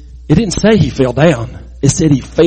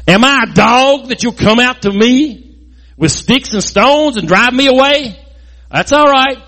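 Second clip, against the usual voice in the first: hammed-up threat, higher, slowing on come on down; retold giant's rage; 6 semitones higher than usual. Goliath threatening David across the valley, mock rage. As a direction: taunt the boy like a boastful giant. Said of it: "Goliath gets really mad".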